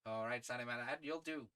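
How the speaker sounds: lightly voiced English gentleman adventurer; settled character voice. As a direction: give the lad brisk approval in character. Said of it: "I have a voice in mind".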